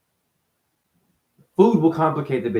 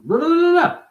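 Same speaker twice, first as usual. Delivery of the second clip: high, loud blah-blah ranting; mock rant; 6 dB louder than usual. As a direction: rattle it off like an angry rant.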